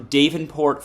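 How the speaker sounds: Davenport with a long A, DAY-ven-port; disputed town pronunciation. Real, not acted. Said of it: "So it's Davenport".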